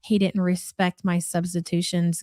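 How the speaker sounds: mocking imitation of the complainer. Host mimicking the vlogger's complaint about the driver, lightly mocking. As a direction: parrot her line back to make fun of it.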